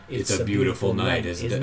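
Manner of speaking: lightly voiced shadow villain; a hint of the shadowy villain. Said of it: "Do your shadow voice".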